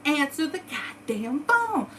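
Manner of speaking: mock scream. Imitating friends' all-caps texts as a high yell. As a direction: friends in group chat yelling, answer the phone. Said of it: "they're fucking screaming at me".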